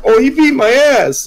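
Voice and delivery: high-pitched mock whine; imitated tattling brother. Little brother tattling to dad, imitated whine. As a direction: complain like a kid telling on someone.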